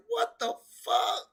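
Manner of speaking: very high put-on voice, baffled; imitating Casey. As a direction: squeak out Casey's disbelief. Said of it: "Casey O'Neill looked at her like".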